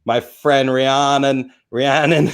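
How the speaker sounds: Jersey accent. Shown as a demonstration. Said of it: "in my Jersey accent".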